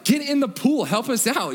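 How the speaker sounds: high-pitched, urging call; rally them over like an eager kid. Retold or imitated. High school boy urging family to join in, calling out. Teenagers calling bystanders into pool.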